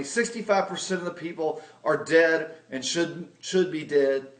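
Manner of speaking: mock alarmist sales spiel; doom-and-gloom pitch. Scaring his sister with financial doom, mock alarmist. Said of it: "by saying".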